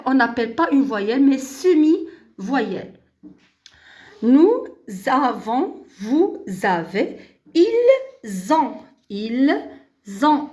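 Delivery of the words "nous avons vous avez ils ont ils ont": "nous avons", "vous avez", "ils ont" split, z linking; liaison with z. Shown as a demonstration. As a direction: recite "ils ont" slowly, z opening "ont". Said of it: "La même chose".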